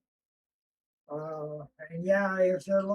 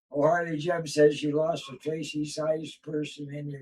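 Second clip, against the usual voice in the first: ordinary delivery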